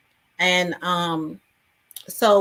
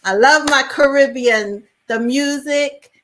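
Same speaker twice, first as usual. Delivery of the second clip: high, loud, relishing delight; enthusiastic gushing; 7 semitones higher, 7 dB louder than usual. Real, not acted. Guest telling host about her roots, loudly enthusiastic. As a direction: gush with raised pitch and volume.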